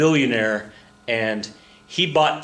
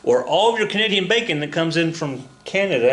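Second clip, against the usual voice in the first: tongue in cheek; 6 semitones higher than usual. Real, not acted. Teacher joking to students about free trade, tongue in cheek. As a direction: play the stereotypes up as a knowing joke. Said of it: "tongue in cheek as I'm saying that".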